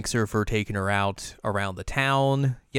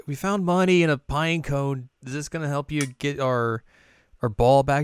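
put-on higher, childlike chatter; eager kids; 5 semitones higher than usual. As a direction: play the hopeful little kids. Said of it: "they're like".

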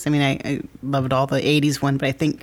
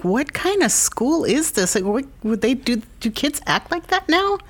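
baffled; 10 semitones higher than usual. Retold or imitated. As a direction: sound baffled by it all. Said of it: "I'm like".

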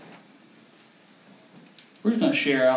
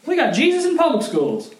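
much higher, giddy disbelief; retold excitement; 4 dB louder than usual. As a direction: gush in thrilled disbelief. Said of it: "And I was like".

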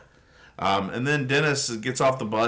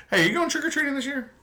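excited; 13 semitones higher, much faster than usual. Real, not acted. Playful question to the child.

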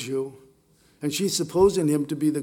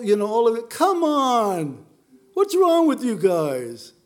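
mock exasperation; 3 semitones higher than usual. Preacher mocks complaining young Christian.

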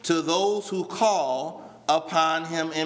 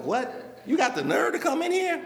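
sharp, high indignant What, then disbelief; indignant parent; 5 semitones higher than usual. Retold or imitated. Preacher playing parent scolding child, indignant and high. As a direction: call out the cheeky child, pitch jumping up.

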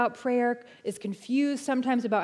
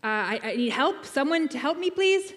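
rising desperation; 4 semitones higher than usual. Acted. Caller repeats to phone menu.

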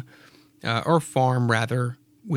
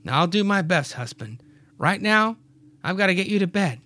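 lightly voiced wife, a bit higher; Mary's voice; 6 semitones higher than usual. Mary coaxing Clyde to bed, lightly voiced. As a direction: coax your husband off to bed. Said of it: "Mary says".

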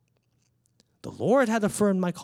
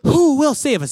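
put-on a toddler calling her father to save her, high and loud; little daughter's plea; 12 semitones higher, 10 dB louder than usual. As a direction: play the small girl wailing for rescue. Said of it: "She imprisons herself too".

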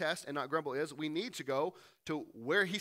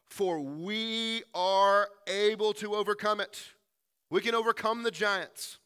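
slow, louder confident rally; rallying call; 4 semitones higher, 6 dB louder, slower than usual. Acted. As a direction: lift the crowd's courage. Caleb rallying people in story.

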